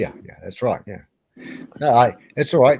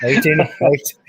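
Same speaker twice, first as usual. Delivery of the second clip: squeal; 4 dB louder, slower than usual. Acted. Squeals the number.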